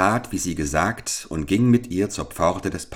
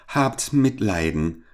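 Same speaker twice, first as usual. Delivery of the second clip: pleading cry; 3 semitones higher than usual. Acted. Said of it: "rief der Kleine".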